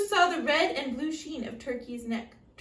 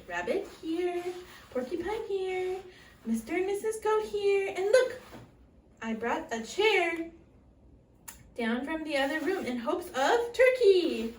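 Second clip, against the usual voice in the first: lightly voiced hostess; 5 semitones higher, 4 dB louder than usual. Missus Moose seating guests.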